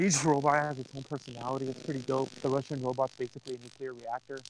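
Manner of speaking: crackly usb mic; crackling mic. Real, not acted. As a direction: voice through a crackling microphone. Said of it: "your mic is crackling a little bit".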